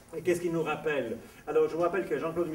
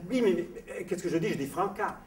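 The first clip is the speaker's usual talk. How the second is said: stammering, higher-pitched puzzlement; bewildered protest; 5 semitones higher, 3 dB louder than usual. Retold or imitated. Nurse protests to the Italian, bewildered. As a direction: insist you said exactly that, baffled.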